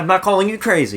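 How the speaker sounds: laughing. Retold or imitated. Therapist voiced in movie retelling.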